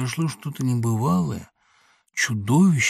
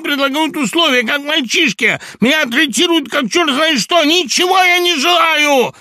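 high, loud, shaking with agitation; hysterical shout; 9 dB louder than usual. A narrator's reading. Laevsky reeling, shouting high and loud at Samoylenko. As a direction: scream it out, close to a fit. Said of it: "крикнул Лаевский, шатаясь от волнения".

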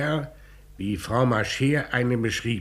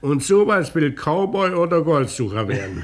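amused scoff; 5 dB louder than usual. Acted. Commissioner laughs at boy.

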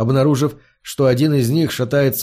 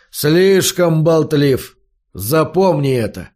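menacing repeat; 2 semitones higher, slower than usual. Acted. Brute threatens the hero.

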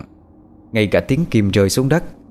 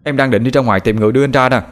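slightly raised, quick younger-brother voice, worried; lightly voiced worried younger brother; 4 semitones higher, faster than usual. Younger brother explaining to his brother, lightly voiced worry. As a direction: gush it out as the worried little brother.

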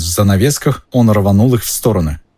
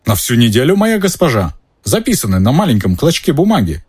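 proud; 5 semitones higher than usual. Acted. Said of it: "гордо произнёс сэр Кэддиган".

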